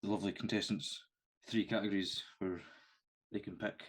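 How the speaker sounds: breathless after running up stairs; panting slightly between phrases; out of breath. Real, not acted. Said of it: "so I'm really out of breath".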